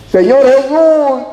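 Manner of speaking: long, high, loud wail of appeal; heartfelt cry. Retold or imitated. Blind man begging Jesus from his heart, crying out. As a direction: cry out slowly from the depths of the heart. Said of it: "Empezó a gritar desde lo más profundo de su corazón".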